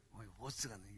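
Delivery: low-pitched Jeolla accent; 전라도 사투리. Shown as a demonstration. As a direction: toss it off low in Jeolla dialect. Repeats Jeolla demo. (낮은 전라도 억양)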